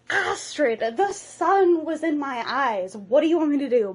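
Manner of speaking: hammed-up exasperated protest; mock protest. Hiccup excuses his missed axe throw to Astrid, mock protest.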